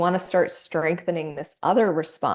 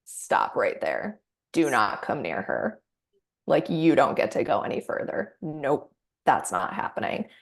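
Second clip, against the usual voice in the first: protective inner advocate; 4 semitones lower than usual. Acted. Coach voicing the inner advocate: a hint of a firm protector. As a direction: stand guard and block the way, calmly. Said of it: "That voice that says".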